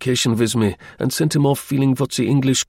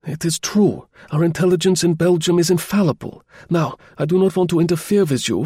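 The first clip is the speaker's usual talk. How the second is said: put-on higher, grave old baron; German baron; 6 semitones higher than usual. Baron warning spy in his shut study, higher grave voice. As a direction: voice the Baron, urgent and secret.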